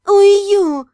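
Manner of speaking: loud drawn out oh no; loud long dismayed groan. Acted. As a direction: stretch the dismay out. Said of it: "протянула я".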